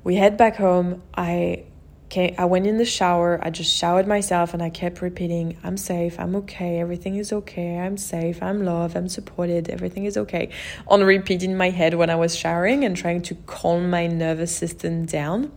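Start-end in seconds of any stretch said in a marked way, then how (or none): 5.6-10.5 softer, self-soothing repetition of a calming mantra. Retold or imitated. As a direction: say it gently to yourself to calm down. Repeating self-soothing mantra in shower.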